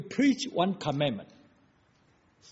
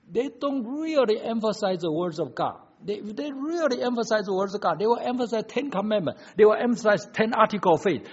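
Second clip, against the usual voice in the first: higher-pitched, insistent pulpit delivery; emphatic preaching; 8 semitones higher, 7 dB louder than usual. Real, not acted. Preacher to congregation on emphasizing God's words, emphatic preaching. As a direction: hammer each clause home.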